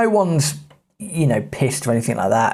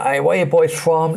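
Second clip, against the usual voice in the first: bus driver voice; 4 semitones higher than usual. Retold or imitated.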